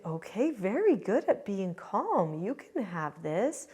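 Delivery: slow, sing-song parental praise; praising parent. Retold or imitated. Parents rewarding toddler for being calm, slow praise. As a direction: reward the child with drawn-out, lilting approval. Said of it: "then they would say".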